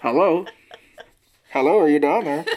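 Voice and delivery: giggling through a pretend phone call; laughing mock call. Pretending to call down the hole by tin can, laughing. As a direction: try to keep a straight face and fail.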